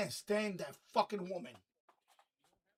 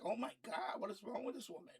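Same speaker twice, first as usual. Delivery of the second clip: imitating Brenda Song; 9 dB quieter than usual. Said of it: "Brenda Song is looking at her like".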